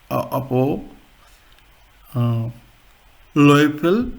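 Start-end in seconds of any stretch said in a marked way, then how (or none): 3.4-4.1 Löffel with a short ö, said louder; short O umlaut. Shown as a demonstration. Teacher giving a short umlaut example, firm pronunciation. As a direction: model Löffel firmly with rounded short vowel. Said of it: "short umlaut".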